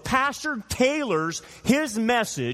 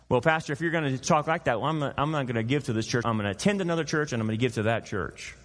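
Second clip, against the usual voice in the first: quick, offhand grumble of a churchgoer, voice sinking lower; grumbling churchgoer; 5 semitones lower, faster than usual. Retold or imitated. Churchgoer grumbling to the pastor about leaving, fast and sinking. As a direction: rattle it off like a miffy member walking out. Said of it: "they vote with their wallets".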